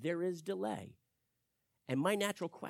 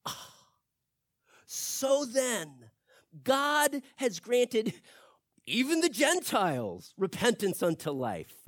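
praising God; 5 semitones higher, 5 dB louder, slower than usual. Retold or imitated. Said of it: "and praised God".

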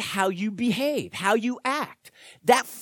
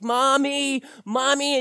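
lightly voiced lost child calling, a little higher; frantic child call; 4 semitones higher than usual. Lost child in the store calling for mommy, mildly higher. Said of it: "their cry is getting frantic".

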